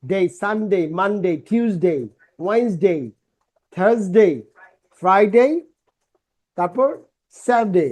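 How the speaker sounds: each day name said slowly with ডেই; slow teacher drill. Shown as a demonstration. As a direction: drill the weekdays with the ডেই ending. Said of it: "আমরা ডে বলি না". (ধীরে ধীরে দিনের নাম)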